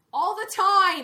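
very loud, very high-pitched shrieking scream. Reacting excitedly to how a character looks on screen: screaming. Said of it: "Now I'm screaming again".

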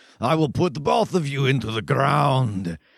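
words pushed out as a growl. Describing a staged wrestling scene, the speaker repeats a wrestler's line, growling. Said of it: "And then he kind of growls".

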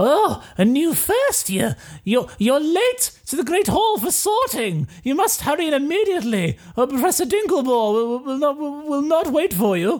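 put-on elderly woman's voice pitched very high. Game master voicing an old woman at the castle door, in an old woman voice. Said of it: "and like an old woman peers out in these sort of emerald green robes".

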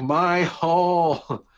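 put-on raw, high-pitched sudden yelled outburst. Retelling a wrestler's yell after a bump onto the apron: imitating Nia Jax yelling. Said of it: "just yelled".

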